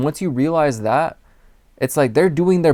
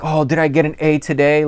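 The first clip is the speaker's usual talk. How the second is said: eager for approval; 3 semitones higher than usual. Retold or imitated. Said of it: "I didn't say it like that".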